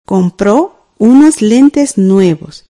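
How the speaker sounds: very slow, each word spaced for writing down; teacher dictating the sentence for students to write, very slowly; slow dictation. Shown as a demonstration. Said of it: "escribamos la oración".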